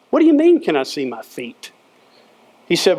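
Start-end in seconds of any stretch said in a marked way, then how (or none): 0.1-1.7 a boy's mock disbelief; incredulous boy. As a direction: scoff at the silly question.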